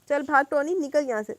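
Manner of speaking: loud, breathless urging to run; panting shout. Acted. Beaten boy shouts at his friend to flee. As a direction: gasp it out while being beaten. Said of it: "ہانپتے ہوئے کہا".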